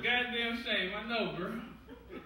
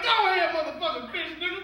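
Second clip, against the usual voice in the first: mock cheer; 4 semitones higher, 7 dB louder than usual. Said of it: "I was like".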